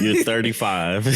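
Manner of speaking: put-on quoting in a light Boston accent. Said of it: "Katina's Boston accent came out".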